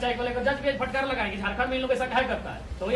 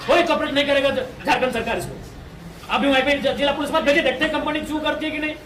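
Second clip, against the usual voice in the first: loud, forceful demand; loud protest; 5 dB louder than usual. Real, not acted. Protest leader to officials about police guarding the company, loud and forceful.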